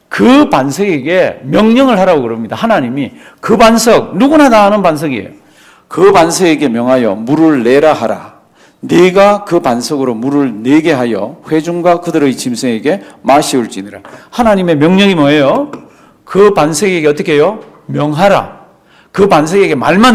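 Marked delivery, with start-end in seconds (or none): 5.9-14.0 천천히 또박또박 성경을 읽는 목소리; 말씀을 한 자 한 자 힘주어 낭독하듯. Acted. Reads scripture again. (느리고 엄숙한 성경 낭독)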